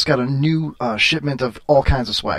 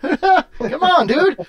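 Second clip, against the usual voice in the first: high, eager and louder; excited; 11 semitones higher, 4 dB louder than usual. Real, not acted. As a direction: beg playfully with excitement. Excited begging for name.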